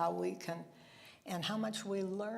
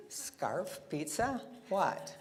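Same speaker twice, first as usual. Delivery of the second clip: puzzled word by word; 2 semitones higher, much slower than usual. Shown as a demonstration. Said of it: "But if you signed it".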